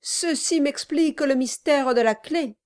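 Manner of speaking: high, quick, eager; lively. A narrator's reading. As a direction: jump in eagerly. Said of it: "dit monsieur Brass avec vivacité".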